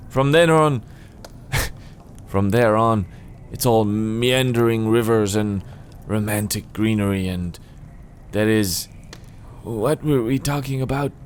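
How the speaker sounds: lightly voiced old man losing his thread; halting, forgetful old hermit; absent-minded old man. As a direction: trail away, then ask in confusion. Reader plays Donald.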